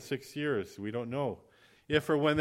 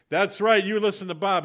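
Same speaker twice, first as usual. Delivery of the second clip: passengers chiming in; 8 semitones higher, 8 dB louder than usual. Acted. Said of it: "everybody goes".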